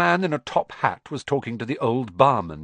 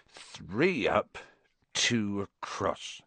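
muttered; 3 semitones lower, 6 dB quieter, much slower than usual. Acted. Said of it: "he muttered".

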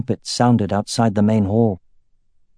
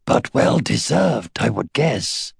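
amused dragon; slower than usual. A narrator's reading. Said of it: "he could sense her amusement".

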